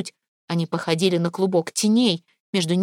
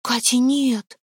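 cry out; 5 semitones higher, much slower than usual. A narrator's reading. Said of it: "и вскрикнул".

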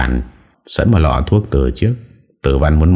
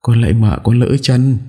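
crying pleading; 7 semitones higher than usual. A narrator's reading. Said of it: "khóc lóc van xin".

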